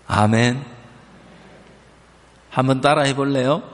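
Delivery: usual speaking voice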